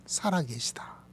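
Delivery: breathy hush on the living God; whispered declaration. Acted. Preacher to congregation, hushed whisper. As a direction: whisper it like a sacred secret.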